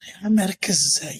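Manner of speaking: whispered, fed up with being told to focus; exasperated whisper. Retold or imitated. A man recalling school whispers in frustration to the host, exasperated. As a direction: breathe it out as a helpless aside.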